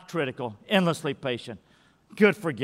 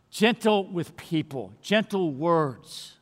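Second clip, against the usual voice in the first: gentle tone; slower than usual. Shown as a demonstration. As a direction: ease the words out kindly and slowly. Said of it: "a gentle tone of voice".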